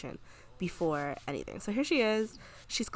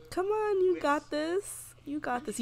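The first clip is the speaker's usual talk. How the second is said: coaxing encouragement; 8 semitones higher, slower than usual. Real, not acted. Coaxing Sim during debate.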